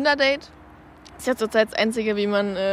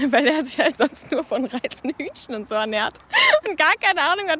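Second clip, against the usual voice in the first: usual speaking voice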